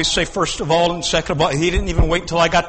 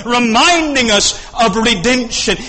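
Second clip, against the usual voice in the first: ordinary talk, nothing marked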